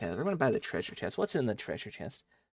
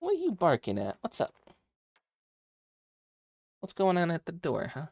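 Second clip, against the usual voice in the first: much higher pet-talk voice; talking to the dog; 7 semitones higher than usual. Real, not acted. Streamer asks the barking dog what's at the door, higher pet voice.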